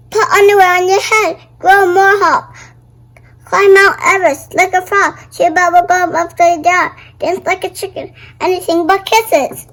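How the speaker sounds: fast, loud desperate list; frantic. Acted. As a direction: rattle off cures in panic.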